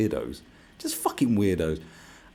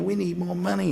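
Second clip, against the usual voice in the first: high, louder mock plea; mock weeping; 13 semitones higher, 4 dB louder than usual. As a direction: plead tearfully in a put-on high voice. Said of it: "sort of crying and weeping".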